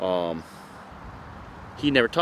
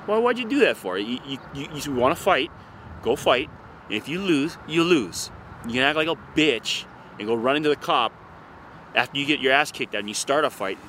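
a lightly voiced Hawaiian cop, raised and scolding; mock the cop telling him off, pitched up; 3 semitones higher than usual. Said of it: "the cops are like".

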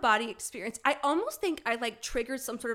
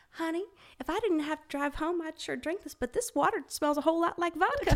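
lightly voiced elderly passenger, pitched higher; a hint of a sweet old lady, raised pitch; ninety-year-old woman; 6 semitones higher than usual. Old woman complaining to attendant about her drink, lightly voiced. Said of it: "this ninety-year-old woman".

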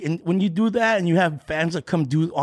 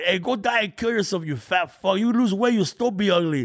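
put-on drunk heckler shouting; 5 semitones higher than usual. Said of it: "From, from the au".

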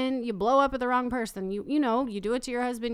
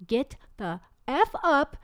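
mock angry order; 2 semitones higher, slower than usual. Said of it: "I'm about to effing lose it".

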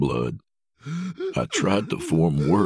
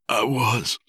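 whispered; 7 semitones higher than usual. A narrator's reading. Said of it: "I said".

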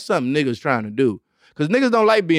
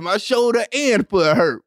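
mock quote; 5 semitones higher than usual. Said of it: "that said".

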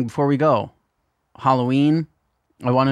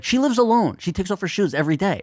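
pitched-up indignant dad, easing down; retold fury; 5 semitones higher than usual. Dad hearing about the shoes next day, mock furious. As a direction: mildly imitate an outraged dad. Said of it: "he's furious 'cause he's like".

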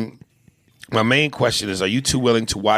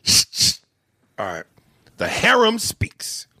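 whisper; 8 semitones higher than usual. Acted. Dramatic announce.

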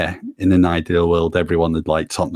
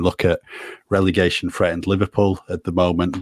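completely serious newsreader delivery; deadpan. Real, not acted. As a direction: say it straight-faced, like reading the evening news. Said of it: "how you did that so deadpan".

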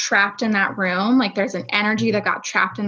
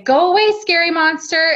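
higher, louder command to a monster; firm parent command; 7 semitones higher, 4 dB louder than usual. Retold or imitated. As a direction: shoo the monster away firmly. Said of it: "so we say".

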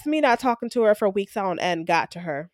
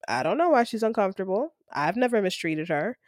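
calm; 5 dB quieter than usual. Retold or imitated. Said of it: "I was very calm".

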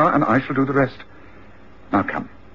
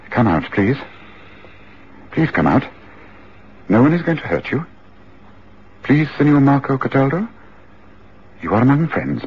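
coaxing. Acted. Coaxing frightened man from attic.

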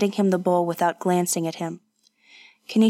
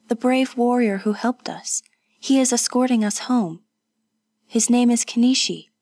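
higher-pitched, lightly voiced woman; reassuring Kazuko; 4 semitones higher than usual. Companion explaining who escorts them, reassuring. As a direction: explain it in a lifted voice.

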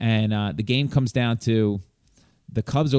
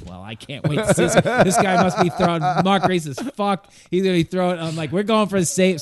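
excited retelling; 6 semitones higher than usual. Retold or imitated.

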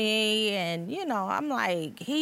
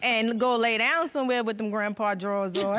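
louder, laughing through the comeback; laughing retort; 2 semitones higher, 4 dB louder than usual. Retold or imitated. Wife tells husband to lay down in grandpa drawers, laughing. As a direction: tease him while laughing. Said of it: "I said".

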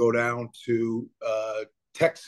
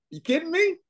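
laughing, pitched way up; 10 semitones higher than usual. Real, not acted. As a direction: laugh through mock pain. Laughing about painful loss.

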